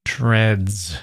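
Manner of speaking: "Treads" drawn out with weighted consonants; heavy consonants. Shown as a demonstration. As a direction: weigh down both ends of "Treads", letting it fall. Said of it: "Listen to the heaviness of the consonants".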